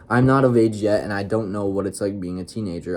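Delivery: whiny mocking imitation of sister; mocking sister's whine. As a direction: parrot her words to mock her. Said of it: "I mocked her".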